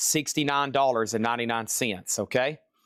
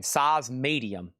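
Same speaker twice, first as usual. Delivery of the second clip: slow emphasis; slower than usual. Shown as a demonstration. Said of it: "repeated slowly for bidders".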